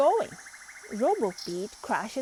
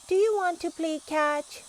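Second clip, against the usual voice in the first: higher and louder, pleading; eager plea; 8 semitones higher, 5 dB louder than usual. A narrator's reading. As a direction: ask again, more eagerly. Pete asks John, third try.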